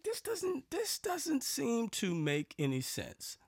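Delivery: high-pitched doubt, slowing right down; skeptical. Retold or imitated. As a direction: voice your doubt high, drawing it out slowly. Retelling his doubt at the scam.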